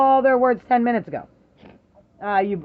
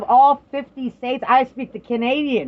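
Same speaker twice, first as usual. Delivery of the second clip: excited loud rant; 4 semitones higher, 6 dB louder than usual. Real, not acted. Excited rant about Canadians.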